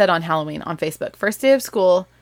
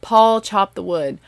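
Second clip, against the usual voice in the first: drawn-out Southern Pa and Ma; Southern accent; 6 dB louder, slower than usual. Shown as a demonstration. Mother reading the Little House books to her girls, Southern accent. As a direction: read it aloud with a Southern accent, leaning on the names. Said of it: "in my Southern accent, when I read them".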